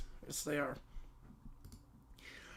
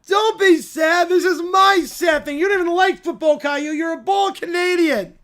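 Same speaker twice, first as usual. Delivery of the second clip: whiny rant; 2 semitones higher than usual. Acted. Bear ranting after loss.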